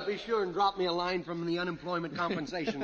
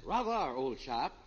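slow, hammed-up British accent; 4 semitones lower, slower than usual. Comedian putting on a British accent for his partner. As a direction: play a pompous Englishman with a British accent. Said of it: "Where did you get this British accent?".

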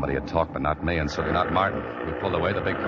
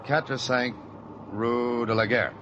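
slow, clumsy attempt at a French accent; bad French accent; 6 semitones higher, slower than usual. Holliday giving the cabbie the address in clumsy French. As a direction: stumble through the French address in a poor French accent. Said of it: "with an accent like that, just talk English".

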